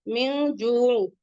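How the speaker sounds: मिन जू very slow with a hidden nasal न; slow recitation showing ikhfa. Shown as a demonstration. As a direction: let the न in मिन fade into the nose. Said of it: "तो यहाँ पे इख्फा होगा".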